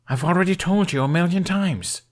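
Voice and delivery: worn out from repeating himself; lamenting. A narrator's reading. Hiccup lamenting to his father, weary and loud. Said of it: "he lamented".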